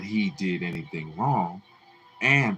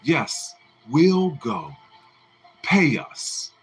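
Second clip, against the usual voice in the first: belligerent demand; 5 semitones higher, 4 dB louder, slower than usual. A narrator's reading. Mattie demanding pay.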